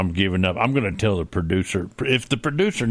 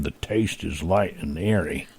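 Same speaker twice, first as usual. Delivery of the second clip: cowboy voice; 4 semitones lower, 4 dB quieter than usual. Shown as a demonstration. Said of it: "while you're saying".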